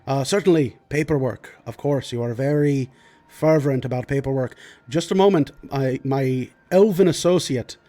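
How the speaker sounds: lightly voiced fussy, polite lord; a hint of flustered nobleman; apologetic lord. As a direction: play a lord excusing himself to a guard. Game master plays the apologetic Lord.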